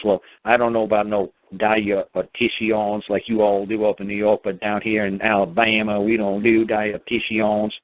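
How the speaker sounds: slow, drawling Southern accent, imitated; lightly put-on slow Southern drawl; mock Alabama Southern accent, slowed down. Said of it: "She has a southern accent".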